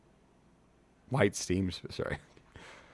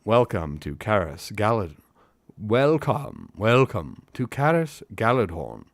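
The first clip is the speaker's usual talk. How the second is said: raised, declaimed elf voice with put-on accent; a formal, projected welcome; Haldir; 2 semitones higher, 7 dB louder, slower than usual. Elf welcoming travelers to the city, raised accented voice. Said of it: "how do we do Haldir again?".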